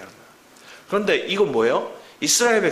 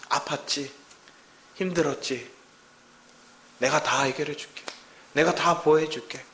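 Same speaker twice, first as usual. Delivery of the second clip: tender comfort; 3 dB quieter than usual. Acted. God comforting child.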